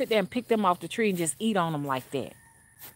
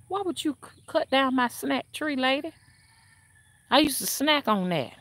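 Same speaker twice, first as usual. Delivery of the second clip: indignant protest; 6 semitones higher than usual. Retold or imitated. Side-eyeing the woman, imagined protest.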